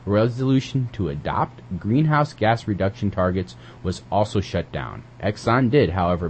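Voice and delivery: evenly paced news reading. Acted. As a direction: read the headline and story like a newscaster. Reads a news item aloud.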